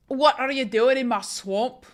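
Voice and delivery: Shrek's Scottish-style accent attempt. Streamer trying Shrek's swamp line for viewers, Shrek accent. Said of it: "people with deeper voices are better at accents".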